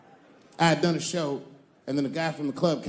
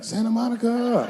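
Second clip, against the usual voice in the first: mock proper Santa Monica; imitating fancy local; 6 semitones higher than usual. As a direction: say it like a prim local, pitch up. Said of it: "a black dude was like".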